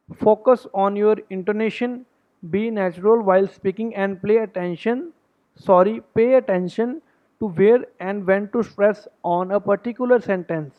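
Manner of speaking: slow, deliberate reading of a tip. Acted. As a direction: read each word out slowly for the class. Reads out a tip slowly. (धीमी, सधी हुई पढ़ाई)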